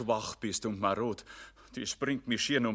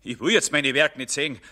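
distressed outburst; 7 semitones higher, 7 dB louder than usual. Acted. Jedermann fends off his Werke.

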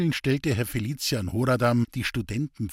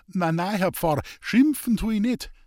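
higher, eager dialect voice, defensive; earnest simple woodcutter; 9 semitones higher, 4 dB louder than usual. Acted. Hans-Peter defending his street preaching to the priest, higher and earnest. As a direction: plead your case like a rough honest man.

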